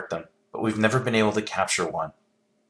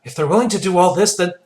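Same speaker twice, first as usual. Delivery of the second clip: heated argument; 3 semitones higher, 6 dB louder than usual. Acted. Heated argument over artifacts.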